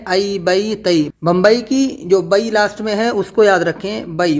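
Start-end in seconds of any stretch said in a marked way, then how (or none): 0.1-1.1 ائی، بئی، تئی each with an "ai" glide; model pronunciation. Shown as a demonstration. Teacher has students mind the sound, model pronunciation. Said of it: "آواز کو دھیان میں رہے". 4.2-4.4 بئی with a clear ya glide, "bai"; model pronunciation. Shown as a demonstration. Teacher reminds students of Bombay's last syllable, model pronunciation. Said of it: "وہی یا کی آواز نکالنا ہے".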